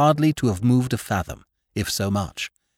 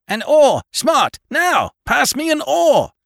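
high, loud, clipped orders in panic; urgent shout; 5 dB louder, slower than usual. Acted. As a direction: bark each order at the boat. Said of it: "shouted the captain".

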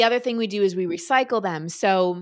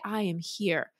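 softer, gentle reassurance; soothing parent, voice dropping softer; comforting; 3 dB quieter than usual. Retold or imitated. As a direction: quietly stay with a crying child. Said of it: "it can be just as comforting to say".

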